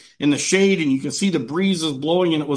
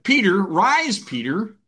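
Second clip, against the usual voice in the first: voice calling Peter; 5 semitones higher, slower than usual. Acted. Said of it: "a voice came to him and said".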